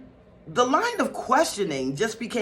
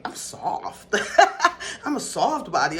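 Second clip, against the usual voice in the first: laughing; 2 semitones higher, 3 dB louder than usual. Real, not acted. Laughing protest at "hard body.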